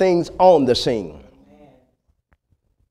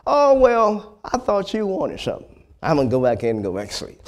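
unbothered, sleepy; 3 dB quieter than usual. Acted. Elijah shrugs off the alarm.

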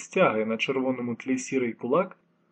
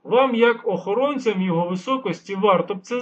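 instructive; 5 semitones higher, 7 dB louder than usual. A narrator's reading. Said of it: "повчально пояснив старий".

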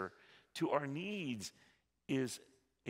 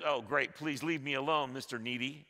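annoyed sigh; 2 semitones higher, 5 dB louder than usual. Pretend. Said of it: "He's not freaking out because".

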